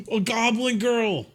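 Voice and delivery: high excited gasp; gasping delight. Real, not acted. Gasps on spotting goblin girl.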